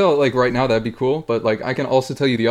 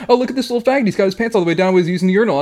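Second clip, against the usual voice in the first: higher-pitched jeering kid imitation; mocking sixth graders; 6 semitones higher, faster than usual. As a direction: mimic bullies pointing out a victim. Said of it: "they're making fun of me".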